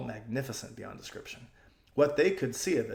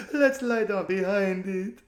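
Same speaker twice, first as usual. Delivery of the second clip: frightened whisper; 8 semitones higher, 6 dB louder, slower than usual. A narrator's reading. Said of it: "whispered Lasaraline".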